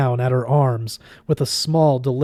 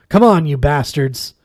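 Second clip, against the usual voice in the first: battle cry; 2 semitones higher, 7 dB louder than usual. A narrator's reading. Benedict charges the shades.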